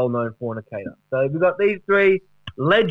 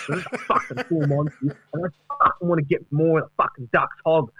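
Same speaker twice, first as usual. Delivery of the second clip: mock Carey bragging; 3 semitones higher than usual. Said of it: "he says that".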